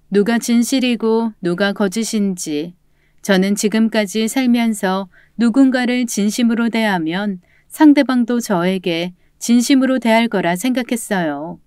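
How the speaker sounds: ordinary delivery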